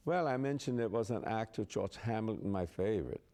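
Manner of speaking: imitated German-accented queen; lightly put-on German accent. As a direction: mimic her German accent. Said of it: "she had a German accent".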